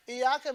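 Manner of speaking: "إياك" with a short, single y; no shadda. Shown as a demonstration. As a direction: pass quickly over the y in "إياك". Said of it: "means light we worship".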